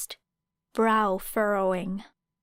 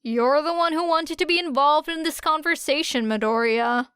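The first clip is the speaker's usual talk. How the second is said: sharp grin; 6 semitones higher, 3 dB louder than usual. A narrator's reading. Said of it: "said Era with a sharp grin".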